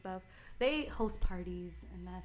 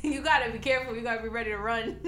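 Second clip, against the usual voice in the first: laughing; 2 semitones higher, 5 dB louder, faster than usual. Real, not acted. Joking warning while laughing.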